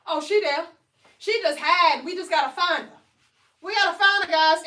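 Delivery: playful excited search; excited discovery. Real, not acted. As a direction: hype up the found waistline. Finding the waistline, excited to viewers.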